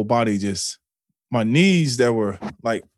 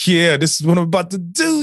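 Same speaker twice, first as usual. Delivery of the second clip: crazed elation; 13 semitones higher than usual. Retold or imitated. Acting the crazed inner answer.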